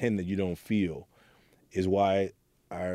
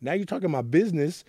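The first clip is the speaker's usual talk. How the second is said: shocked outburst; 9 semitones higher than usual. Retold or imitated. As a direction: caught off guard as she names his secret. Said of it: "And I was like".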